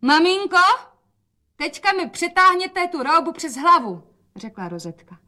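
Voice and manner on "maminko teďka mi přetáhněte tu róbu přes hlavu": put-on much higher, louder young girl; bright call of an eager daughter; girlish voice. Rozetka asks mother for help in higher girlish voice.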